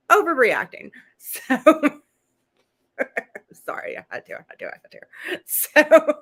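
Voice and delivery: laughing hard, breathless, words squeezed out; can't stop laughing, wheezing through the words. Real, not acted. Host cracks up at her own joke about Jules, laughing. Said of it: "that just tickled me a lot".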